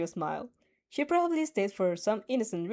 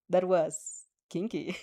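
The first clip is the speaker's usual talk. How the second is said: teasing; 4 semitones lower, slower than usual. Acted. Mina teasing with a wink.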